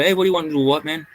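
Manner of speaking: fast, mock tough bouncer voice; bouncer's reply. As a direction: brush off the little kid, quick.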